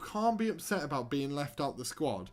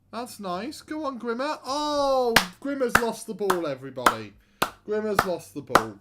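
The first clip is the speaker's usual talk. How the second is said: much higher, louder cheer turning to groan; excited then dismayed; 7 semitones higher, 6 dB louder than usual. Real, not acted. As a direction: cheer the player on, then despair. Cheering then player loses ball.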